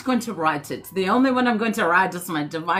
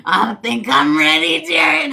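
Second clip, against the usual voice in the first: excited; 5 semitones higher, 6 dB louder than usual. Real, not acted. Excited call to chat.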